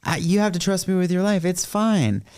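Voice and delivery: a hint of a smooth-talking Scottish soldier; high put-on soldier voice. Imitating Scottish soldier, raised pitch.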